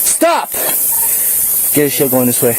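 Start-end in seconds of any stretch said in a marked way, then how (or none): 0.0-0.5 yelling commands at suspect; shouted surrender demands. Real, not acted. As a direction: bark the order at full volume. Officer ordering suspect down.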